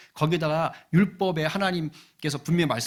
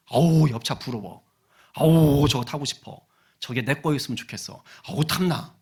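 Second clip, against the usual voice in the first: longing sighs of envy; covetous pining, loud on the opening groans; acted envy; 4 dB louder than usual. Coveting the neighbour's new car, acted envy.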